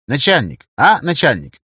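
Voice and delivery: ехидное, дразнящее обращение; подначивай, ехидно растягивая. A narrator's reading. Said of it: "начал язвить Савелий". (язвительно)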